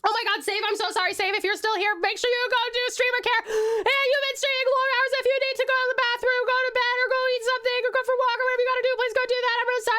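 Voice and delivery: sweet high-pitched doting voice; high cute voice. Acted. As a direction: coo over the little character, fast and bright. Cute voice to a character.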